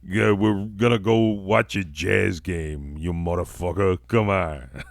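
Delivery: comic, put-on Utah accent; chummy wise guy in a mock Utah accent. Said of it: "that's my Utah accent".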